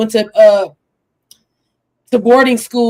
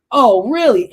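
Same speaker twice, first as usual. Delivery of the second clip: defensive; 2 semitones higher, 5 dB louder than usual. Retold or imitated. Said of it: "then she gets defensive".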